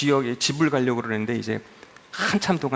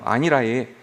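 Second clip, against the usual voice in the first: Gyeongsang regional accent; Gyeongsang dialect; 2 semitones lower, 3 dB louder, slower than usual. Shown as a demonstration. Preacher showing regional ways of declining, Gyeongsang accent. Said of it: "경상도".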